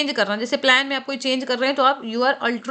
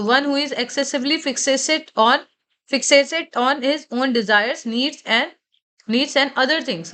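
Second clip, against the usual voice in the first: slow, deliberate reading of the definition; slow dictation; much slower than usual. Shown as a demonstration. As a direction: read it out so students can follow. Teacher reads definition slowly. (परिभाषा धीरे-धीरे पढ़ना)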